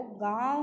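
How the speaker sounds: गाँव with the vowel sent through the nose; nasalized आँ in गाँव. Shown as a demonstration. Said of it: "इसका स्वर नाक से निकलता है".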